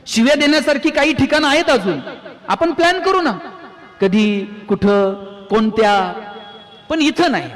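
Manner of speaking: coaxing him along through a laugh. Acted. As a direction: chuckle while you bargain with him. Coaxing the swearing drunk playfully. (हसत हसत समजावणं)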